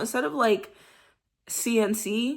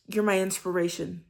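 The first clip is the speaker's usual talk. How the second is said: affirming dirty talk. Shown as a demonstration. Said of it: "speaking life into each other".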